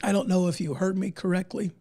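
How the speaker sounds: losing voice, a bit hoarse; worn out, hoarse voice. Real, not acted. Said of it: "I know I'm losing my voice".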